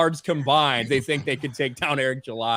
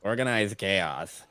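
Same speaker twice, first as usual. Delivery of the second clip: low, soft, slow deadpan; mumbled mock of a channel intro; mock channel name; 6 semitones lower, 8 dB quieter, slower than usual. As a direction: say the name low and flat, mocking it. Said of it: "you go".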